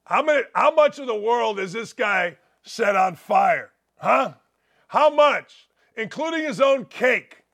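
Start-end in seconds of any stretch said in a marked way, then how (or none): 4.9-7.4 excited mock. Real, not acted. Excited mocking.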